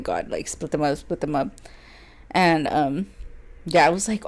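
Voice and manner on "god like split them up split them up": retold prayer. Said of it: "to genuinely pray and be like".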